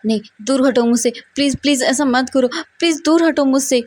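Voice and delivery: rising, frantic cries to be left alone; panicked pleading. Acted. Brother in a panic attack pushes Wang Ji away, frantic pleading. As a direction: beg him to get away, voice climbing in panic.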